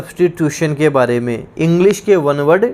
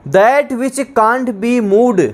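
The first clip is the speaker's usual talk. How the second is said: very slow, higher dictation of the definition; 4 semitones higher, much slower than usual. Shown as a demonstration. Teacher dictating to students, very slow and higher. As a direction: spell the phrase out word by word. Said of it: "dictating definition".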